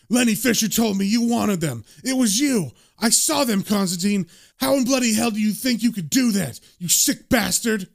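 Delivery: heated but not shouted; angry accusation. Acted. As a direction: accuse him with indignation. Enraged attacker accuses Constantine.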